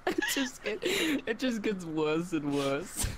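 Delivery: high, slow words through giggles; breaking up on each word; helpless laughing. Real, not acted. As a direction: struggle to talk while laughing. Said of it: "I'm trying".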